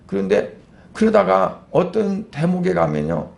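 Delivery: ordinary talk, nothing marked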